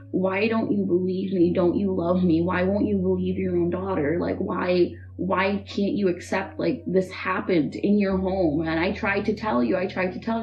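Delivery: replaying a desperate cry at mom, held back; mild mock yell. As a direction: daughter begging her mother to believe her, half-voiced yell. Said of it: "I'm just screaming".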